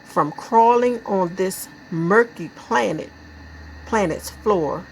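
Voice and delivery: subdued poem reading with pauses; measured, lightly solemn verse; poetry recitation. Acted. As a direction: recite it gravely, phrase by phrase.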